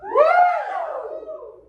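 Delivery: high, loud falsetto whoop; falsetto woo. Shown as a demonstration. Choir teacher modelling falsetto again. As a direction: throw it way up. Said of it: "Throw it way up there for me".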